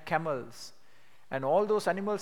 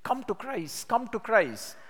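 higher-pitched, urgent gospel plea; earnest pleading; 4 semitones higher than usual. Retold or imitated. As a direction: plead with them as Paul did, voice lifted. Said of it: "we have to make a gospel plea".

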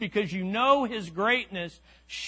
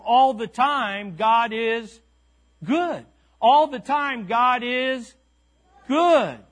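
call-and-response; 3 semitones higher, 5 dB louder, slower than usual. Acted. Preacher calling the refrain to the congregation, rising and loud. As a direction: build the refrain up and hit good.

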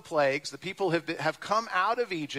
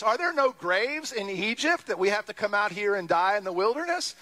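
sarcastic complaint. Retold or imitated. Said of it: "you can't be sarcastic about it".

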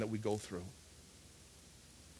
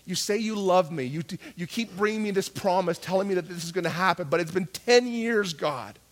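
mild retold frustration with God; frustrated complaint, lightly acted; angry prayer. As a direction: plead a grievance, with some heat. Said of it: "I would get so angry with God".

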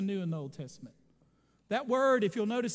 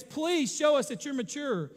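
raised, louder urgent appeal; acted impassioned begging, pushed louder; imitated crying plea; 4 semitones higher, 5 dB louder than usual. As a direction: plead insistently, as Paul to his elders. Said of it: "he's crying and he says".

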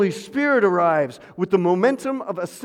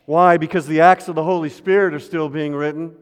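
climactic shout; 6 dB louder than usual. Acted. Climactic refrain.

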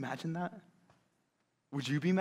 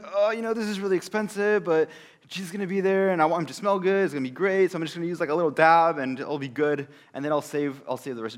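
mock stingy Mary; 6 dB louder, faster than usual. Preacher mocking what Mary did not say, breezy. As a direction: play a penny-pinching version of her.

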